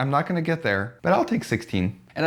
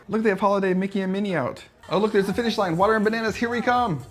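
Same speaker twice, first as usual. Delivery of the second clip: excited; 8 semitones higher than usual. Real, not acted. Spotting Mickey and finish line.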